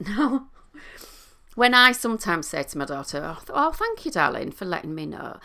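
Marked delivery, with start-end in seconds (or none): 3.2-5.4 light sing-song. Shown as a demonstration. Mother thanking her daughter, light sing-song. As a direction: brighten up like thanking a child. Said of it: "you might be noticing my tone of voice with this as well. So being a bit lighter and a little bit more sing-songy".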